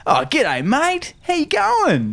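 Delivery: high, hearty bloke greeting; Uncle Douchebag. Retold or imitated. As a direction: play the matey uncle. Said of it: "Uncle Douchebag".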